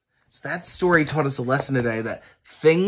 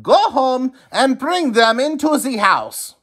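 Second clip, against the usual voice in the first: higher firm instruction; wise man instructing; 12 semitones higher, 3 dB louder than usual. A narrator's reading. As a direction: give the order like a sage. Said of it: "the wise man said".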